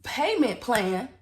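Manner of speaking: slow, drawn-out questioning; stunned, slowed-down repeat; incredulous echo. Retold or imitated. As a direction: stretch the words out in disbelief. Acted disbelief, echoing the clerk.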